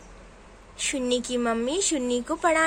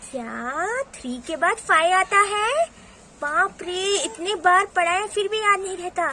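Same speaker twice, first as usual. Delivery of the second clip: mildly raised indignant scolding; exasperated mother; 5 semitones higher, 3 dB louder than usual. Acted. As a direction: react in dismay at the child's mistake. Exasperated mother at wrong answer. (झुँझलाई हुई माँ)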